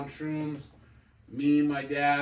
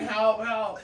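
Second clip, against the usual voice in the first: lightly voiced cry for help, a bit higher; mock scream; 6 semitones higher, 3 dB louder than usual. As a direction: imitate him wailing for help, half-hearted. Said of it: "He starts screaming".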